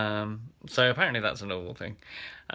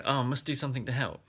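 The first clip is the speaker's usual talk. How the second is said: quick, higher fluster; mild mock panic; 4 semitones higher, faster than usual. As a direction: hurry it out in a mild retold panic. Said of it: "I panic and I go".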